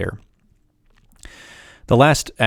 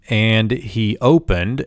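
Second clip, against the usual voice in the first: slow reading; slower than usual. Shown as a demonstration. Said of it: "we move into the next Vav consecutive clause".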